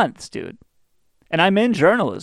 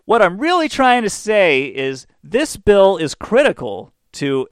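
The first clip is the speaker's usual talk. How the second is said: slow droning speaker; 5 semitones higher, 4 dB louder, slower than usual. Retold or imitated. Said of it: "They start off by saying".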